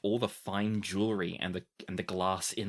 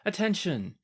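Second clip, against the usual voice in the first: calling out to the hall as a herald; royal herald; 4 semitones higher than usual. Acted. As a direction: announce it like a palace herald. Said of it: "one of the herald calls out".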